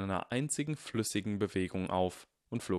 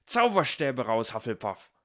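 high indignant yell building to a loud rallying cry; shouting; 7 semitones higher, 5 dB louder than usual. A narrator's reading. Ernie rallies the Hufflepuffs against Goyle, shouting. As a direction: build up to a battle call. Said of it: "schrie Ernie".

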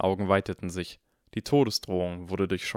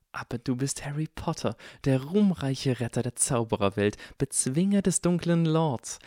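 slightly higher, hero-worshipping fanboy; adoring young Draco; 3 semitones higher than usual. Acted. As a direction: heap praise on an idol.

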